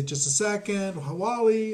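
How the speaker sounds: put-on high, light voice of a kid or wife at home; imagined family member answering. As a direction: picks up and calls Wally to the phone. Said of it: "And they'd say".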